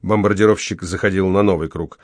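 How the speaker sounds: usual speaking voice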